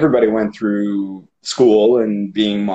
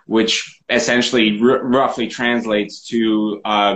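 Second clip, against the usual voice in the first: ordinary delivery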